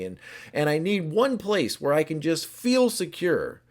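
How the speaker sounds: normal talking voice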